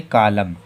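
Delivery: कालम said "kaalam" with no final N; model pronunciation. Shown as a demonstration. Teacher reads out कालम to the students. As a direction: drop the N in कालम. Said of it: "क्या पढ़ेंगे?".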